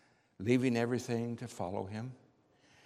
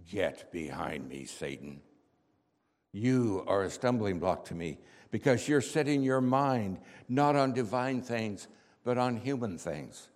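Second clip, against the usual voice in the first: angry rebuke; 2 semitones lower than usual. Acted. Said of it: "in an angry voice".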